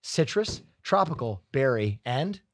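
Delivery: scripted product pitch with stepped, listed flavors; ad read. Real, not acted. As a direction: read it out like a sponsor spot. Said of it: "do an ad read".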